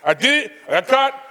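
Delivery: high, cocky defiant voice; defiant brother. Retold or imitated. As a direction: own it with attitude. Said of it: "He said, he said".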